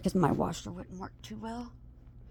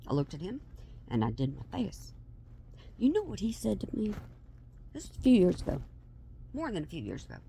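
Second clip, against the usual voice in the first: usual speaking voice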